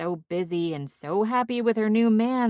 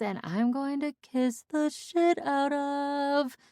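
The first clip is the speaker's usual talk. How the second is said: tipsy babbling friend; 4 semitones higher than usual. Acted. Drunk woman telling her friend where she is, tipsy. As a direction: babble tipsily, drawing out the ending. Drunk chatter back on the phone.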